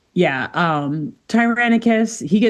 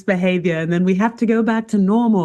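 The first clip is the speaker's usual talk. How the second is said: laughing PA voice, slightly higher; loudspeaker announcement; 4 semitones higher than usual. Retold or imitated. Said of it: "gets on a loudspeaker".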